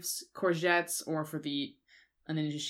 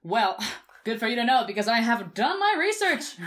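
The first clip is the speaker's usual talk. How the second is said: laughing; 4 semitones higher, 6 dB louder than usual. Real, not acted. Laughs while staying in role.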